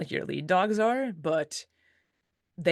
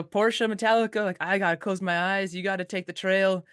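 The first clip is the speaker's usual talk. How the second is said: calling out; 3 semitones higher than usual. Retold or imitated. Musher calling ahead to her lead dogs, raised call. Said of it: "I'd call up to Portia".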